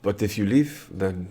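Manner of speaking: lightly voiced French prince, halting; measured prince with a French accent. Plays the French-speaking prince.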